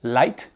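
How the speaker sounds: "Light" with a clear French-style L. Shown as a demonstration. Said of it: "on fait un light L".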